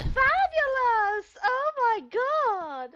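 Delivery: high, slow, flamboyant rich gay voice. Pretend. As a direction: gush it, dripping with glamour. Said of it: "that rich gay voice going on there".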